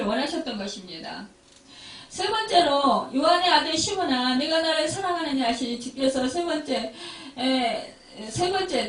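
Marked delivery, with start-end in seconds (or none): 3.1-5.5 louder, quicker, insistent; pressing question. Acted. Jesus asks Peter a third time, louder and insistent.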